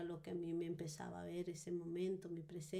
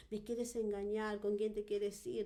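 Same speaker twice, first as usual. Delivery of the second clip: mildly raised, demanding voice; retold accusing outburst; 3 semitones higher, 4 dB louder than usual. Wife waking from a dream accuses her husband, desperate retold demand. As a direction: re-enact a desperate accusation, only half yelled. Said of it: "¿Por qué me estás gritando?".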